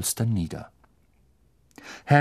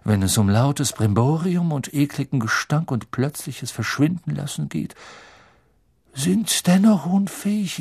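lightly voiced mystical teacher; lofty seer lecturing, starting high and settling down; Professor Trelawney; 4 semitones higher than usual. Trelawney lectures her class. (leicht gespielte, geheimnisvolle Wahrsagerin)

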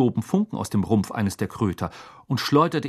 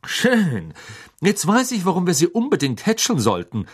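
dry; 8 semitones higher, 3 dB louder than usual. A narrator's reading. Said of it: "sagte Malfoy trocken".

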